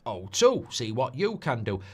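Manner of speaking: hint of the advert voiceover; Sean Bean. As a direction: lightly mimic the actor's slogan delivery. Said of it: "Sean Bean does the O two advert".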